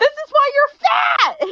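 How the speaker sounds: high-pitched, tearful, crying yelling outburst. Retelling a scene where she starts crying, then yells: imitating Muffin's crying yell. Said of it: "She starts crying and then she yells".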